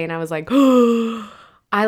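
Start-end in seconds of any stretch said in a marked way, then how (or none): 0.1-0.2 stunned, gasping; shocked gasp. Retold or imitated. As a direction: gasp of dismay. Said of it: "wanted to curl up in a ball and cry".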